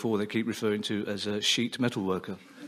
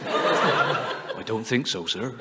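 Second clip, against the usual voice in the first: put-on Cornish accent; much slower than usual. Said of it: "they spoke in a Cornish accent".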